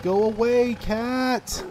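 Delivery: high, loud plea; exasperated yell. Real, not acted. Player shouting at the cat, exasperated.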